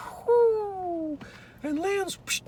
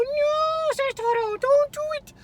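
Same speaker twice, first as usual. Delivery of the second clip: higher, louder urgent no; urgent warning; 11 semitones higher, 5 dB louder than usual. Acted. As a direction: stop her before she grabs it. Toro warns Maria urgently.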